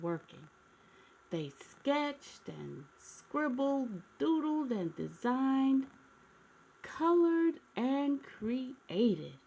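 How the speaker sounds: slow, savoring storybook reading; storybook narration. A narrator's reading. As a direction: linger on each pair of verbs as if reading to kids.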